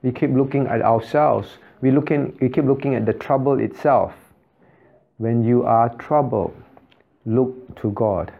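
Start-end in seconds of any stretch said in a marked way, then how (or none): 5.2-8.3 slow exhortation. Acted.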